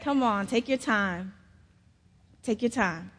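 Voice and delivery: soft, gentle coaxing; imitating a grown-up's quiet encouragement; reassuring grown-up. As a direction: softly reassure a crying child, lightly acted. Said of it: "another grown-up said".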